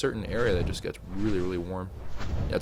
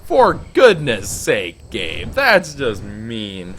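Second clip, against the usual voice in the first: exasperated; 7 dB louder, much slower than usual. Real, not acted. Bad loot, exasperated at game.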